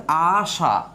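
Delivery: আশা with the final আ stretched long; drawn-out demo. Shown as a demonstration. Teacher stretching আশা to show it ends in a vowel. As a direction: slowly hold the last vowel of আশা. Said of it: "এই আশা শব্দটা যদি আমরা প্রনাউন্সিয়েট করি".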